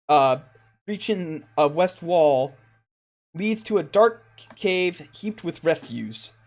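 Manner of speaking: measured, lilting read-aloud description; game master's scene reading. Acted. Game master reading the altar room to players, scene-setting narration.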